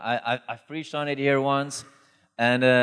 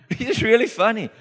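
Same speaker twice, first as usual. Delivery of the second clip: amused; 9 semitones higher, 3 dB louder than usual. Real, not acted. Amused retelling, laughs as he speaks.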